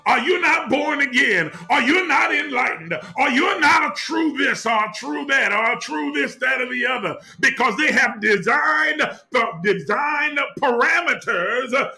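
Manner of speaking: building, impassioned sermon with long pauses; preaching. Acted. Preacher urging the congregation toward their authentic truth, impassioned. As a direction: swell and sink like a preacher at full force.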